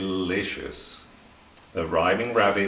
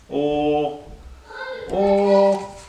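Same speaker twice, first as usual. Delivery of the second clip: climbing higher and louder, stuck; stuck, rising; 9 semitones higher, 5 dB louder than usual. A narrator's reading. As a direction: push each or up higher, searching. Rabbit stuck for a rhyme.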